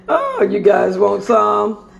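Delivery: teasing singsong offer; playful tease. Real, not acted. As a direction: dangle the food in front of them. Teasing viewers with food.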